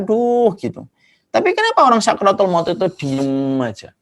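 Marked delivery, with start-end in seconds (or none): 0.0-0.5 higher-pitched demonstrated "ouch"; mock pained cry. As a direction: act out a mild cry of pain. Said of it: "sering teriak-teriak". (teriakan kesakitan tiruan)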